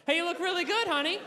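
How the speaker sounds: put-on cheesy boyfriend flattery, a little laugh; sweet compliment. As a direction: lay it on thick for honey. Pretend compliment to girlfriend.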